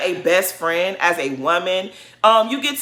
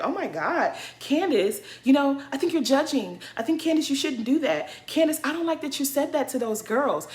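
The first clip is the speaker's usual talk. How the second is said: mimicking Monique; 7 semitones higher than usual. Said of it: "Monique comes around and was like".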